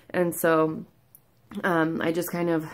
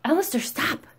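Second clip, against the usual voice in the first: calling out sharply; 8 semitones higher than usual. Real, not acted. Telling off Alistair mid-video.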